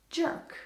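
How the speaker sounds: Jörg said as "jerk"; American pronunciation. Shown as a demonstration. Showing how Americans read the German name, American pronunciation. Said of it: "as they would pronounce it".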